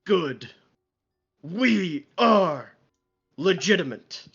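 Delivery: mock-earnest symbiote chanting affirmations; symbiote reciting affirmations. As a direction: intone each affirmation like a proud mantra. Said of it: "He's just like".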